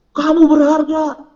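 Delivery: high, drawn-out mock yell; mock shout. Preacher showing youth how God would not speak, shouting. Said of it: "gak bakal teriak-teriak".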